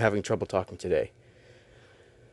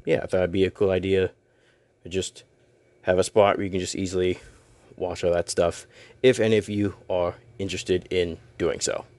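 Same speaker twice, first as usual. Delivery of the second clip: robot voice; 2 semitones lower than usual. Real, not acted. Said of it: "I do not know why I'm talking like a robot".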